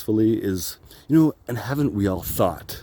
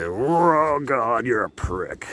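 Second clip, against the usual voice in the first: drawn-out, higher-pitched call to the heavens; mock cry to God; 4 semitones higher, much slower than usual. Vlogger jokingly cursing God up at the universe, mock cry. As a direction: wail it slowly up at the sky, in jest.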